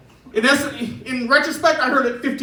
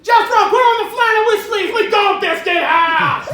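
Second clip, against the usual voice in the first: hillbilly parent; 12 semitones higher, 6 dB louder than usual. Retold or imitated. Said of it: "They were all like".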